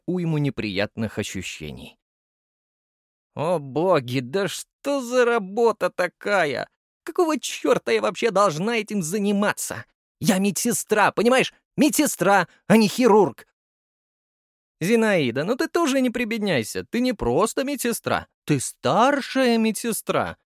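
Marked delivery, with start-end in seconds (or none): 3.3-13.5 put-on high, griping old nurse; grumbling nurse. A narrator's reading. Fat nurse complains while stitching, high and grumbling. 14.8-20.4 high, mock-flattering tease; teasing. A narrator's reading. Lyudmila teases nurse Zinaida, high and mocking. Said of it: "подколола подругу".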